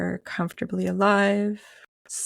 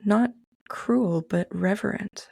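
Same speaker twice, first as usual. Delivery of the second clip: measured reading with long pauses between phrases; unhurried, reflective first-person storytelling; poetic narration. Acted. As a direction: read it like a contemplative prose poem, letting each image settle. Reads own poetic afterlife manuscript.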